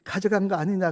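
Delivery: high, loud acted scolding; stern rebuke. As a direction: order a reprimand, loud and high. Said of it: "그러면서 책망하라 그래요".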